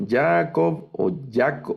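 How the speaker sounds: Jacob stressed on the first syllable, YA-akov; wrong stress. Shown as a demonstration. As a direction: misplace the stress early in Jacob. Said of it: "No leo Jacob". (Jacob mal acentuado, al principio)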